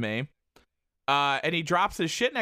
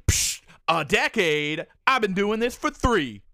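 scoffing mockery; 4 semitones higher, 3 dB louder than usual. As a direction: drag out "a decade?" like it's a joke. Woman scoffs at him.

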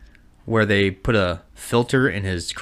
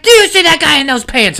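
mock excited mom; 7 dB louder than usual. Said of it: "She's like".

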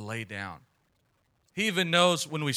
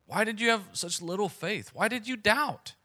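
gentle rebuke; 7 semitones higher than usual. Acted. Jesus questions the disciples.

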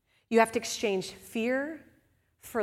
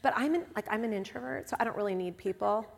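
softer, mock-hesitant introvert excuse; quiet excuse; 7 dB quieter than usual. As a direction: make the excuse sheepishly. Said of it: "No one in this room goes".

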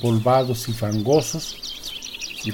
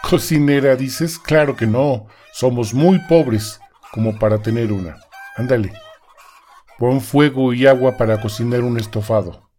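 louder, scolding husband; bossy husband; 3 dB louder than usual. Acted. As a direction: scold her like a gruff husband.

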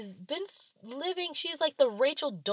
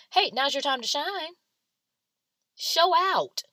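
mock hype-up; 10 semitones higher, 7 dB louder than usual. Mock hyping someone up.

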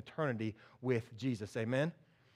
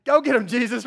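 loud, higher-pitched urging; excited cheering; 6 semitones higher, 8 dB louder than usual. Acted. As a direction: cheer him on like eager friends. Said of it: "but they're excited".

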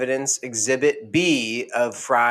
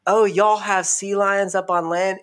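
mermaid voice; 8 semitones higher than usual. Retold or imitated. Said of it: "she's like".

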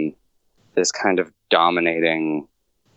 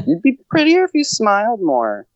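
mocking creep voice; 13 semitones higher, 4 dB louder than usual. Mocking a catcaller's line.

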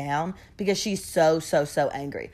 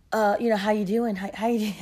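put-on casual boyfriend; 2 semitones higher than usual. Imitating casual boyfriend greeting.

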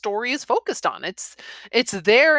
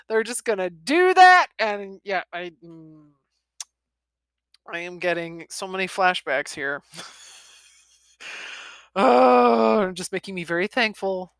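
plain reading voice

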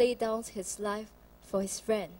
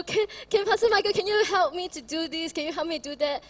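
pleading wife; 5 semitones higher, 5 dB louder, faster than usual. Retold or imitated.

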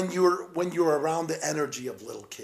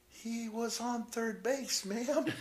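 deadpan punchline; 8 semitones higher, 7 dB quieter, slower than usual. Retold or imitated. Punchline quote.

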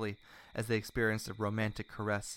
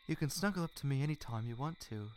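higher, tender character line; gentle invitation with a smile; smiling; 5 semitones higher, 3 dB quieter than usual. A narrator's reading. He invites her to snuggle, smiling warmly. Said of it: "he smiled".

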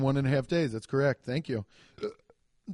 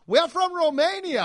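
high and loud, mock foreign lady; mock Romanian lady; 14 semitones higher, 8 dB louder than usual. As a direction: squeal it like the visiting lady. Voicing the lady.

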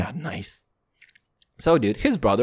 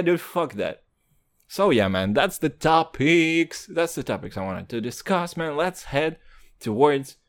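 ordinary talk, nothing marked

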